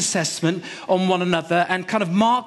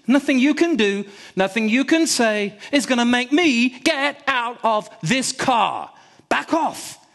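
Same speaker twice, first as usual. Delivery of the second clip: defiant shout; 6 semitones higher than usual. Retold or imitated. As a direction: push back hard at the stranger. Standing up to stranger.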